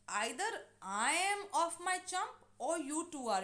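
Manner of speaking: astonished, bewildered. Acted. Husband staring at the two women, bewildered. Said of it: "astonished, bewildered".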